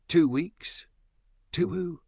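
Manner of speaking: high, disbelieving double take; mock disbelief at the numbers; incredulous. Real, not acted. Mocking his two-week claim.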